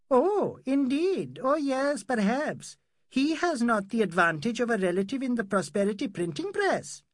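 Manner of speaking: a mild mock jab back; sarcastic retort.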